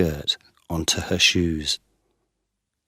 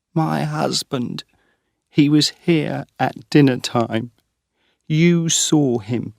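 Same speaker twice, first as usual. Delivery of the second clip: anxious wife pressing her case, higher; distressed young woman; 9 semitones higher, 3 dB louder than usual. A narrator's reading. Wife searching for husband explains to Geoffrey: high anxious plea.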